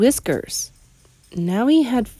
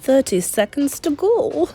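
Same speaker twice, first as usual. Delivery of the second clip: witch crying out; 6 semitones higher than usual. A narrator's reading. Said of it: "cried the Grand High Witch".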